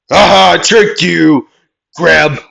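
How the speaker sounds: high, loud sudden aha; spring the trick with a loud cry; gloating ambush cry. Acted. Hider tricking the searcher, triumphant cry. Character springs a surprise grab.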